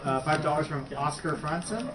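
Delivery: put-on names read in a light French accent. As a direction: say the name in a mock French accent. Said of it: "I'm doing everyone with the French accent now".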